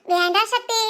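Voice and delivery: wife giggling at husband's honey joke, softly laughing. Real, not acted. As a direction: laugh through it gently.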